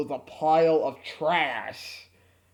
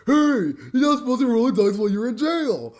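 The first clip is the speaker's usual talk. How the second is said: mock scolding; 5 semitones higher, 5 dB louder than usual. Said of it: "I screwed up my line".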